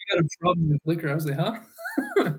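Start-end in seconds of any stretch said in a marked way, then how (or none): 1.4-2.3 very high squeaky huh. Retold or imitated. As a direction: squeak it way up, laughing. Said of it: "That sounded completely different".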